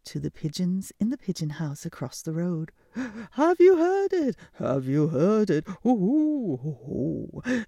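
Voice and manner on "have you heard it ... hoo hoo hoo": high eager calling out; excited owl gossip. Acted. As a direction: call across the road breathless with news.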